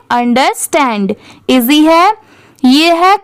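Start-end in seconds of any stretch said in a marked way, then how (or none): 0.1-1.1 अंडरस्टैंड said quickly in one go; quick reading. Shown as a demonstration. Teacher says the word at full speed for practice. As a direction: run अंडरस्टैंड together at speed. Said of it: "speed में पढ़ेंगे".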